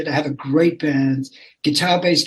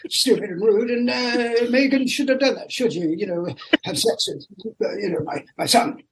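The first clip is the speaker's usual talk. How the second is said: outraged British snob; 6 semitones higher than usual. Retold or imitated. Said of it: "And he thinks".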